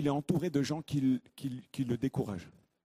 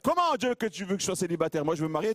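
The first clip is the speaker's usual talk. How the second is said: louder, faster indignant comeback; indignant protest; 6 semitones higher, 4 dB louder, much faster than usual. Acted. Believer protesting to discouraging Christians, loud and fast. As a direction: push back hard and fast.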